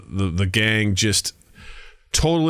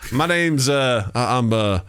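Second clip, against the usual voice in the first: put-on Southern accent. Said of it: "they're all Southern folks".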